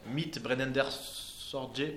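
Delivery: slow, rough German accent on the title Mythe Brennender Sorge. Shown as a demonstration. Lecturer reading a German encyclical title in a German accent. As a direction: sound it out in a hit-or-miss German accent. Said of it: "pardon pour mon accent allemand aléatoire".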